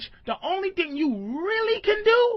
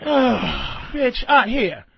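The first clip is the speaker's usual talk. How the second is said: resigned bitch; 3 semitones lower, much slower than usual. Shown as a demonstration. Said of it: "here's the different inflections of bitch".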